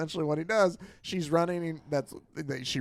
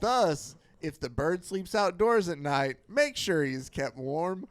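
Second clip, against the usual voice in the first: radio bulletin; slower than usual. Retold or imitated. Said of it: "a bulletin over the radio".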